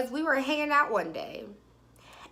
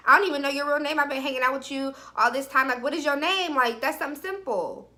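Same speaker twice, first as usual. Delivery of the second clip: higher, pressing retold complaint; exasperated questioning; 4 semitones higher, faster than usual. Woman demanding his real name, exasperated. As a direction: press the point with mild exasperation. Confronting him over the name.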